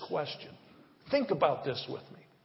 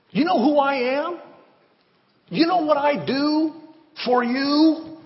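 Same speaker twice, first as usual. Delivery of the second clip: higher, louder protesting pastor voice; mock self-pleading; 10 semitones higher, 8 dB louder than usual. Pastor mocking himself pleading to God, higher indignant. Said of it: "You know what God's been saying to me".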